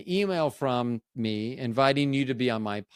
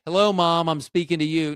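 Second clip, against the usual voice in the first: a whisper that booms out louder; mock whisper projected to the whole room; loud church whisper; 4 semitones higher, 6 dB louder than usual. Shown as a demonstration. Showing her failed church whisper, too loud. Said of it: "that's why I don't try to whisper in church".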